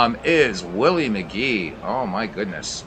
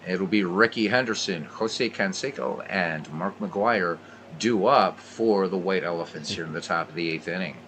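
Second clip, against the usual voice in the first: play-by-play. Acted. Play-by-play commentary continues.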